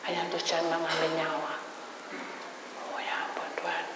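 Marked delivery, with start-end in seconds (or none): 2.9-3.8 breathy inner whisper. Retold or imitated. Preacher whispering an inner prayer to God.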